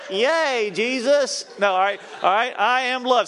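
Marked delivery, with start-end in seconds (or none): 0.1-1.5 high, loud cheer; excited cheer. Real, not acted. Cheering with the congregation. 2.6-3.3 high, loud, enthusiastic declaration. Shown as a demonstration. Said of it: "Say it with enthusiasm".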